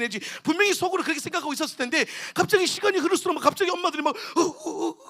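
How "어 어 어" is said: mock crying in short gasps; imitated sobbing gasps. Mothers watching children pray suddenly start to cry, imitated sobs. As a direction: catch the breath as if starting to weep. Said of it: "울기 시작해".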